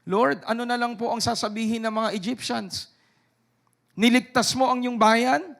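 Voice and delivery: a lightly voiced Moses begging God; Moses pleading. Moses protests to an angry God, pleading. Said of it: "Moses said to God".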